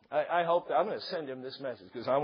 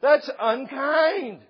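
high, crying, very slow whimper; mock hurt whine; 8 semitones higher, 5 dB louder, slower than usual. Hurt person complaining to the teaser, hammed-up crying whine. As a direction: play the wounded child, overdone. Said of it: "You're like".

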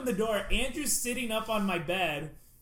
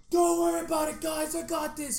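high, loud put-on drunk voice; drunk friend; 10 semitones higher, 6 dB louder than usual. Drunk John reassuring the guys, high loud put-on voice. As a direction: play the sloppy confident drunk.

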